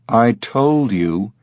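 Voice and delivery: slow, weighty "I told you"; emphatic. Acted. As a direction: draw out "I told you" insistently. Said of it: "he said emphatically".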